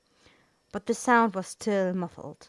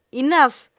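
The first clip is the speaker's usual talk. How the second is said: loud, high shout; commanding shout; 7 semitones higher, 12 dB louder than usual. Acted. The executor silencing the quarrelling table, shouting. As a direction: cut them all off with one word. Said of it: "The voice that came".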